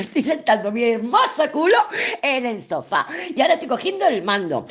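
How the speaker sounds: "hermoso culo" said with light pride, the right way; proud self-talk. Shown as a demonstration. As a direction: say "hermoso" fondly and gently proud. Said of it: "No se te ocurra, pero".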